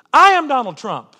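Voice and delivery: loud, laughing through the line; loud laughing confession; rueful laugh. Real, not acted. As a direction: repeat it with a wry, self-mocking laugh. Repeated with a laugh.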